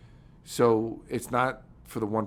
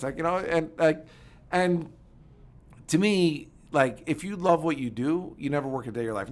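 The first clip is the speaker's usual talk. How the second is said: ordinary delivery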